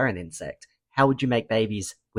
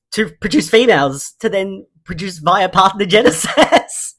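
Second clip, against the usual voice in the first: helium voice; 9 semitones higher, 7 dB louder than usual. Real, not acted. Laughing excitedly about bacteria.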